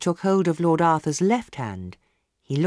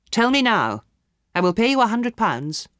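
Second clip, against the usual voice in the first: louder, urgent insistence; insistent demand; 7 semitones higher, 5 dB louder than usual. A narrator's reading. Lord Arthur urgently bribing the palmist, louder. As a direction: press him with money.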